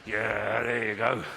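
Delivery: mock confrontational come-on, kept low-key; threatening, confrontational. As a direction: offer it like a veiled threat. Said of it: "It's quite a, it's quite a threatening, confrontational way".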